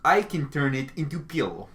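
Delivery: lightly imitated Russian-accented English. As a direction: quote it with a Russian accent, "pillow" as "peelo". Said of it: "like, the Russian guy".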